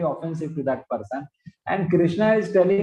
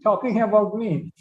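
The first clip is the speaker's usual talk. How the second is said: indignant protest; 5 semitones higher than usual. Acted. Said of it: "Krishna is telling, "My dear Lord".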